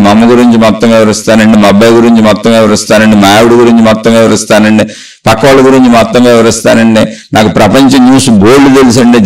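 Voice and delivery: lightly voiced self-satisfied braggart; boastful know-it-all. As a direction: brag like someone sure they know it all. Voicing a boastful know-it-all person.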